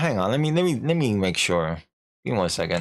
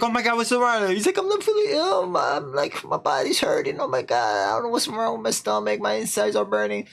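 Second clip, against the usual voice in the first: higher, hammed-up alarm over pain; mock panic; 9 semitones higher than usual. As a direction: play the panic big and high. Husband and wife panic over illness.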